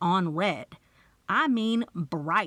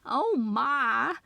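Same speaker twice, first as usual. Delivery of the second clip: gasped; 5 semitones higher than usual. A narrator's reading. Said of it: "Bunny gasped".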